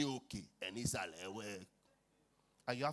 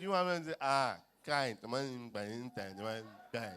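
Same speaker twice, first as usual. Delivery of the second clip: angry retort; 8 dB louder than usual. Retold or imitated. Angry man stepped on.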